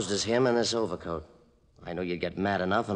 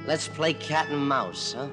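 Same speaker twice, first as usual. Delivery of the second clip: taunting; 4 semitones higher than usual. Acted. Villain taunts in the dark.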